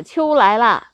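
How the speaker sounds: court official calling out an announcement, loud and high; high shout. Acted. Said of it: "这个太史官就高喊说".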